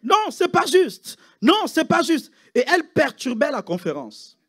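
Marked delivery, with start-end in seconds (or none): 0.0-2.3 imitating an Asian accent, high and slow; mock Asian accent. Preacher imitating the complaining nurse, mock Asian accent. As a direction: drag out a high, sing-song "Non, c'est pas juste". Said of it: "avec l'accent asiatique".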